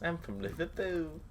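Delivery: mock Irish accent. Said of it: "I can't do an Irish accent".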